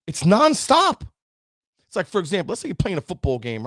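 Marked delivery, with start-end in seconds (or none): 0.1-1.1 slow, high, loud nonstop; drawn-out emphasis. Acted. Preacher to audience, slow high emphasis on nonstop. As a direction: stretch out it's nonstop.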